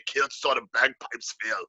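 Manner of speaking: slow, throaty Scottish brogue; drawn-out mock-Scottish burr; Scottish accent. Shown as a demonstration. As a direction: roll it out in thick Scottish. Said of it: "you get that Scottish".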